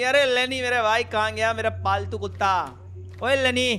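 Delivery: loud, quick teasing holler; mock calling out. Player summoning Lenny like a pet, loud mock holler. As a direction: call out loudly for a pet in jest.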